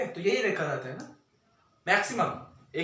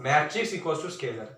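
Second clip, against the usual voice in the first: slow, stress on matrix; mocking the mistake; much slower than usual. Shown as a demonstration. Teacher showing students their error, slow and mocking. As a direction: lay out the error slowly. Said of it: "क्या किया तुम देखो".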